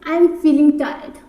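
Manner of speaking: slow, word by word; slow dictation read; very slow model line. Shown as a demonstration. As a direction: lay each word out for learners. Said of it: "basic English में".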